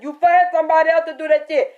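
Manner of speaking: loud, high retold refusal; shouted refusal. Refusing the client's request, retold as a loud shout. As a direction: bark it back at her.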